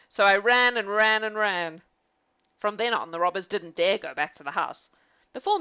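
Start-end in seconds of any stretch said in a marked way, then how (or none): 0.1-1.8 slow, dramatic telling. Acted. Lefty tells of his flight.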